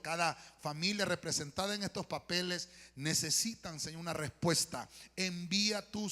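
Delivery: earnest, emphatic prayer in measured phrases; public prayer. Real, not acted. Preacher praying over the congregation's petitions, earnest and emphatic.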